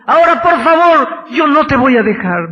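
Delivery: loud, high, desperate shouted pleading; a man clinging on and shouting for a blessing; desperate plea. Acted. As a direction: beg with everything you have, crying out. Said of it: "se agarró de Cristo desesperadamente".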